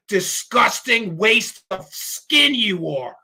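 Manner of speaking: heated, indignant dressing-down; upset scolding. Real, not acted. Host telling Zabel to give the money back, upset scolding. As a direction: punch the insults, stretching out the last words. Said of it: "I'm getting a little upset".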